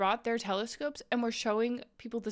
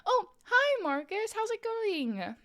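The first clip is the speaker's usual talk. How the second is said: excited greeting; 10 semitones higher, slower than usual. Real, not acted.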